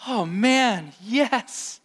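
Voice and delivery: high, pleased exclamation; a self-satisfied yes; imitating a smug churchgoer; mock smug agreement. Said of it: "walk away feeling".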